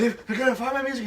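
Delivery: high-pitched panicky stammer, played up; scared, retold. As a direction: act out frightened pleading with a laugh underneath. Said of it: "I was so scared".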